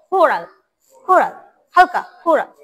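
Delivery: কোরাল with a lightly aspirated first k. Shown as a demonstration. Teacher models the first sound for the class, light kh in কোরাল. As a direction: soften the opening of কোরাল toward a light খ. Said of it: "আম, হালকা খ".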